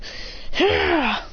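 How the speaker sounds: high imitated battle cry; attack cry. Lycanroc crushing its foe, high attack cry.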